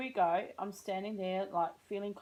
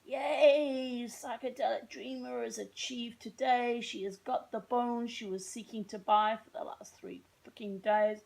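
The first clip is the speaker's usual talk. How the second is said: excited; 4 semitones higher, slower than usual. Retold or imitated. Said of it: "I was like".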